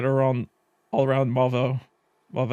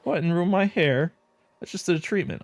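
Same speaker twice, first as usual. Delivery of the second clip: vain scoff; 5 semitones higher than usual. Acted.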